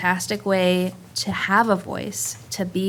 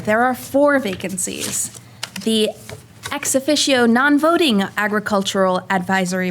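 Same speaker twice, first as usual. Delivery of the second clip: theatrical voice. Acted. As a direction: read it out like a hammy stage actor. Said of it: "she should do it with the theatrical voice".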